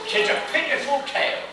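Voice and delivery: real laughter spilling into the words; laughing through it. Real, not acted. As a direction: still giggling, words bubbling with laughter. Still laughing after outburst.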